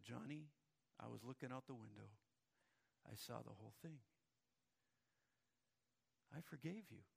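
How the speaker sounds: soft, low and gentle; tender grandma. Acted. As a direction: forgive him gently.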